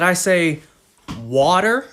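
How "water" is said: water with an open ah vowel, rising as a question; Canadian-style water. Shown as a demonstration. Asking viewers whether this is a Canadian accent, ah-sounding water. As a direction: say water with an ah in the first syllable. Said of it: "is it a Canadian accent that I say".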